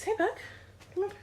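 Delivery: high-pitched call to the dog; calling a pet. Real, not acted.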